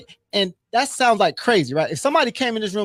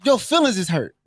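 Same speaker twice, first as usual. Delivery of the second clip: big brother scolding. Retold or imitated. Big brother telling the pledge off, blunt. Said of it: "He's like".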